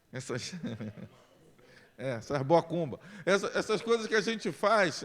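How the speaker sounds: laughing through the words; giggling while mocking the superstitions; amused, laughing aloud. Real, not acted.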